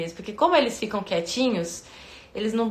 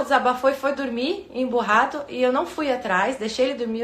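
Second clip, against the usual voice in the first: usual speaking voice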